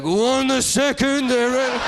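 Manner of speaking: very high, drawn-out cartoon rat voice; Splinter. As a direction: squeak it slowly like an old rat master. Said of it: "It's a rat accent".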